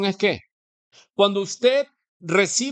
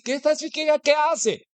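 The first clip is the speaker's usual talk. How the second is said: much higher, puzzled question; baffled onlooker; 11 semitones higher than usual. Retold or imitated. Restaurant onlooker baffled by the praying girl, high and puzzled. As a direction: sound bewildered at the girl.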